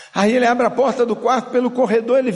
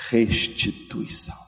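a hushed, reverent whisper of restituição; 9 semitones lower, 6 dB quieter, slower than usual. Real, not acted. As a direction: breathe restituição softly, no voice. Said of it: "whispered key word". (sussurrando restituição)

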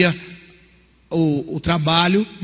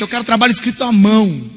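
stern teacher demand; 4 semitones higher, 5 dB louder than usual. Retold or imitated. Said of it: "contra isso".

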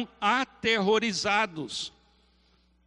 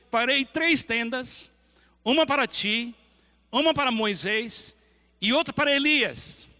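eager Peter; 5 semitones higher than usual. Acted. Peter voiced offering three tents.

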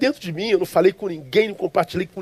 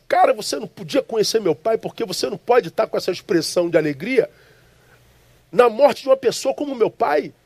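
raised, indignant pitch, confronting the stranger; retold anger; 3 semitones higher than usual. Preacher retelling his dream, confronting the smiling stranger, indignantly. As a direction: protest higher, as if offended at his smile. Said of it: "E eu me levanto com raiva dele".

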